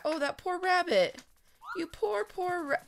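aww, poor little thing; pitying. Real, not acted. Pities a dead rabbit.

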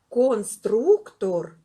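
long drawn-out word; slow, drawn-out «конструктор» for children; said slowly. Shown as a demonstration. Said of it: "ми їх вимовляємо довго".

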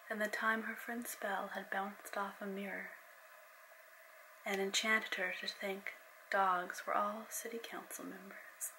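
steady storyteller reading; story narration. A narrator's reading. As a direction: read it like an audiobook. Reads her novel aloud.

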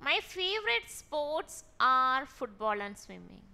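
very slow, word by word; slow dictation. Shown as a demonstration. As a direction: read it out slowly for the class. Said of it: "teacher reads example slowly". (പതുക്കെ വായിക്കുന്നു)

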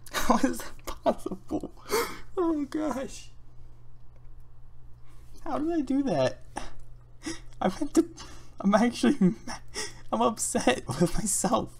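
whiny high voice. Real, not acted. Upset at own mistake.

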